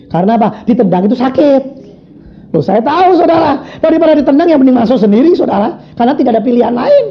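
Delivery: high, animated sermon voice; fervent preaching. Real, not acted. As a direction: drive the point home to the congregation. Preaches at full force. (khotbah berapi-api)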